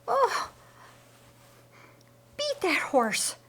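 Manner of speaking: high, urgent cry; woman urging the man to beat the horse; shouting out. Acted. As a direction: call out to stop the horse. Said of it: "Martha shouted out".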